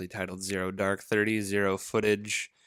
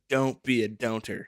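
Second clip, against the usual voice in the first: slow, lightly hammed-up movie motivational speaker; Ken Jeong; 2 semitones higher, 4 dB louder than usual. Quoting a movie guru to a friend, lightly imitated motivational speaker. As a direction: preach it slowly, playing the part a little. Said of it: "Ken Jeong, and he's like".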